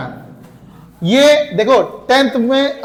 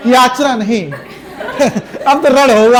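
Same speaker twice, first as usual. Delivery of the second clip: "याचना नहीं" giggled, then "अब तो रण होगा" chuckled; laughing through it. Shown as a demonstration. Teacher demonstrating wrong reading to students, laughing through it. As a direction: say the battle cry while laughing, the wrong way. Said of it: "हंस हंस के कह रहे हो".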